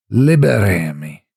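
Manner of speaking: strangled, pitiful creature voice through a blocked mouth; choked creature plea. A narrator's reading. The thing in the pig begs Jennifer, choking pathetically. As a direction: choke the word out like something gagged. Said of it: "it choked, almost pathetically".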